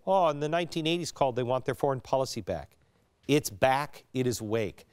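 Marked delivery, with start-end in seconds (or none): 0.1-2.8 quick mock quote of a scoffer; lightly imitated mockery, fast. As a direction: rattle it off as a dismissive jibe. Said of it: "no mocking".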